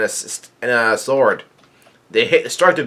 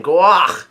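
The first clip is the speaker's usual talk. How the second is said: short pained yelp, pitched up; mock cry of pain; 4 semitones higher than usual. Pacom attacked with a scythe, mock pained yell. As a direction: imitate a strangled cry of pain. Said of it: "yells out in pain".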